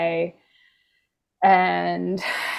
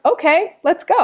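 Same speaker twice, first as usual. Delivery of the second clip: high mock surrender; 10 semitones higher, 7 dB louder than usual. Giving in, retold.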